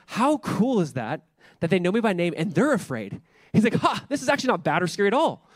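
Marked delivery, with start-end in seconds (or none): 0.1-3.2 delighted. Retold or imitated. Repeated with more delight. 3.7-5.5 higher, laughing off the fear; amused. Retold or imitated. Retold friend laughing off fear.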